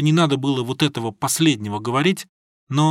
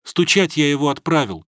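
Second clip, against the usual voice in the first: usual speaking voice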